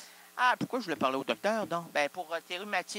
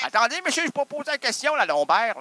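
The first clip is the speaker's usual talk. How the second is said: insistent; 7 semitones higher, 7 dB louder than usual. Pretend. Louder insistent question.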